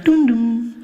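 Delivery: sung two-note PA chime; announcement chime. Acted. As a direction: voice the airport chime before an announcement. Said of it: "she'll come and be like".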